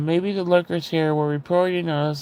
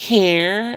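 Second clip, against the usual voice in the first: put-on dismissive teenage voice, "care" drawn out; 4 semitones higher than usual. Retelling what her teenage daughter said all day: imitating teenage daughter. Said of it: "she would be like".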